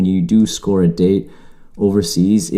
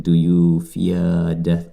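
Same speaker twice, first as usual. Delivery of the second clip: Davy Jones menace; slower than usual. Retold or imitated. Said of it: "Davy Jones ... he's like".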